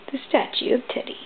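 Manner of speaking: whispered. Real, not acted. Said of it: "whispered aside".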